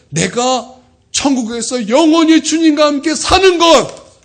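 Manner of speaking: high, loud, drawn-out sermon climax; forceful preaching. Acted. Pastor declares what matters most, preaching forcefully. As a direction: proclaim it slowly at full force.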